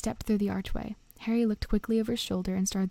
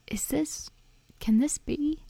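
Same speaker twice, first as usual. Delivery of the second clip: amazed; 7 semitones higher, slower than usual. Acted. Bartender amazed at meeting Harry.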